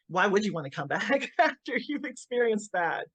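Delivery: asking it through a little laugh; half-laughing, amused disbelief; laughing question. Retold or imitated. Quoting friend, laughing mid-question.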